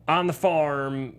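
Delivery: slow, drawn-out Southern drawl; farm Southern accent. Acted. Podcaster specifying how rural he means, slow Southern farm accent. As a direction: stretch it like a mock farmhand from the South. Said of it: "that kind of Southern accent".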